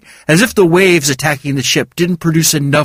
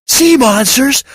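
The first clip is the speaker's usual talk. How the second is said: disbelief; 14 semitones higher, 3 dB louder, slower than usual. A narrator's reading. Disbelieving question.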